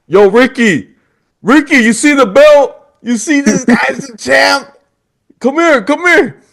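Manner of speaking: security guard hollering for a coworker, excited; calling out excited. Retold or imitated. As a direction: hail a buddy from across the lobby.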